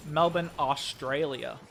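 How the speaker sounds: slow, half-hearted American accent; attempted American accent. Shown as a demonstration. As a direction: try saying it slowly in an American accent. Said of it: "tried to say Australia in an, in an American accent".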